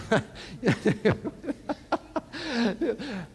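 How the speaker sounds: soft breathy chuckle; a real laugh at his own joke; laughing at his own joke to the congregation. Real, not acted.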